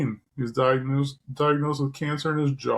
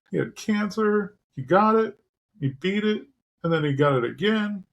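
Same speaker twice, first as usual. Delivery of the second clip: emotional. Real, not acted. Sports fan getting emotional over his childhood hero's struggles. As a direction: push through real emotion with long pauses. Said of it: "Sorry for being emotional".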